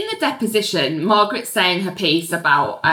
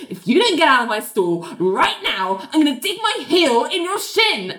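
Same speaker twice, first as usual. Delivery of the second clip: mock threat rising in pitch; imitated anger; 5 semitones higher than usual. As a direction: act out a furious warning, building at the end. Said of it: "so angry".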